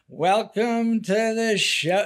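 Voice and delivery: slow drawn-out showman welcome; lightly voiced carnival barker. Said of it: "there was this carnival barker voice".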